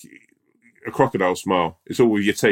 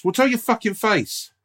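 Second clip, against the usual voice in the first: sarcastic; 7 semitones higher than usual. Retold or imitated. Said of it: "someone goes up and goes".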